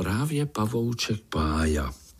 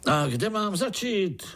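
pleased call; 10 semitones higher than usual. Acted. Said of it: "křičel strýček spokojeně".

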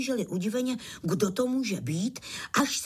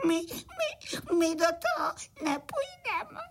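high tearful little crickets; crying; 9 semitones higher, slower than usual. A narrator's reading. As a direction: whimper scared like small children. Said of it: "malí cvrčci se rozplakali". (plačtivě, vysokým hláskem)

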